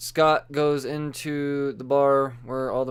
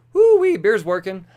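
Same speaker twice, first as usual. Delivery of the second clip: loud, high whoop; real boozy outburst; tipsy whoop; 6 semitones higher, 12 dB louder than usual. Real, not acted. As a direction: holler it out like the beer just kicked in. Tipsy whoop mid-show.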